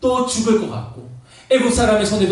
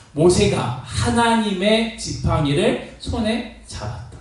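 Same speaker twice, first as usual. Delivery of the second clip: "하나님의 지팡이를"을 천천히 끊어 읽기; 성경 구절을 느리고 또렷하게 낭독; 4 semitones higher, slower than usual. Acted. 성경 구절을 강조해 낭독. (주목할 구절을 천천히 강조해 읽기)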